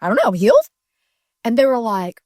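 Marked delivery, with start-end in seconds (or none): 0.0-0.7 a hint of giddy wonder at being healed; amazed excitement. Telling the stunned doctors she is healed, with excited amazement.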